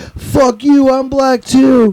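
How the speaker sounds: very high-pitched, drawn-out yell. Speaker re-enacts what he once yelled at a show: retelling own yell. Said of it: "So like I yell like".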